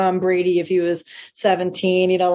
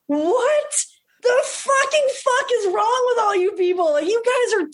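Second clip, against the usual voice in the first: mock outraged disbelief; 13 semitones higher than usual. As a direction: squeak it out, appalled and incredulous. Appalled at the slideshow, retold outburst.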